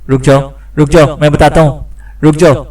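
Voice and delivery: panicked plea at narrator's volume; restrained cry, begging in short urgent bursts; mock scream. A narrator's reading. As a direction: plead desperately without really screaming. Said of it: "Roger ने चीखते हुए कहा".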